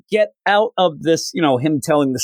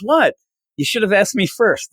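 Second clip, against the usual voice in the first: indignant retort; 5 semitones higher than usual. Retold or imitated. Starfire answers indignantly.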